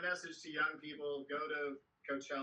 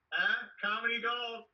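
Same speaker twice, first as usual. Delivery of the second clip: mock proud punchline; 7 semitones higher, 8 dB louder than usual. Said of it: "selling his own pun".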